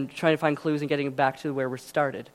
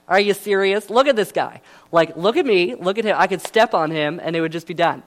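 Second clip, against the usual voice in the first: scoffing Goliath; 2 semitones higher, 5 dB louder than usual. Retold or imitated. Goliath scoffs at David, louder and mocking. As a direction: laugh off the puny challenger. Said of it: "he's laughing".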